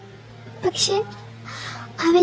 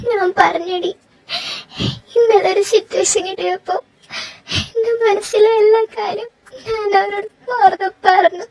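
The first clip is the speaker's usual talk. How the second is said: tearful; 2 semitones higher than usual. Acted. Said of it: "നീ എന്തിനാ അതിനിങ്ങനെ കരയുന്നേ?".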